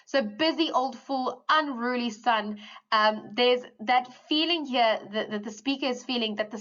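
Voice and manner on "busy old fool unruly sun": slow poem recital. Acted. Quotes poem lines again.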